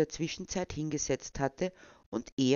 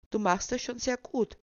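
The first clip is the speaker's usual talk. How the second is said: higher, gently encouraging praise; 7 semitones higher than usual. A narrator's reading. Owner encourages nervous Detlef petting her dog, encouraging. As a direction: cheer him on kindly. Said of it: "ermunterte ihn die Besitzerin".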